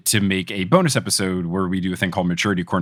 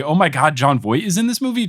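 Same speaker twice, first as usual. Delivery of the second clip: happy surprise; 5 semitones higher than usual. Retold or imitated. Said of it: "go from happy".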